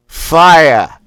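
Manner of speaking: Boston "fire" barked high and loud; Boston fire blast. Shown as a demonstration. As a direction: dump all your air on a Boston "fire". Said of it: "thrust out quickly and sharply".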